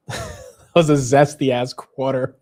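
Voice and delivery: slow, hammed-up sassy drawl through a laugh; mock sassy voice. Streamer mocks his own accent, hammed-up sassy voice. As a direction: camp it up playfully, laughing. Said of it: "it's a gay accent".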